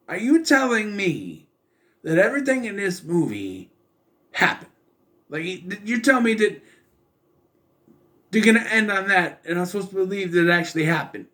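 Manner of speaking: high-pitched, indignant disbelief; incredulous. Retold or imitated. Viewer reacting to the film's ending, incredulous. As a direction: protest as if refusing to buy it.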